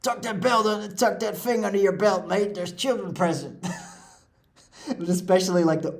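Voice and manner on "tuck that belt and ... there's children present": high, hammed-up Australian accent, slowed and stretched; over-the-top Australian Ron impression, pitched up. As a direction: do Ron as a cartoonishly broad Australian. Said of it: "switch to that Australian accent".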